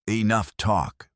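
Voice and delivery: slow snarled command. A narrator's reading. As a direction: snarl it slowly. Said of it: "the deputy snarled".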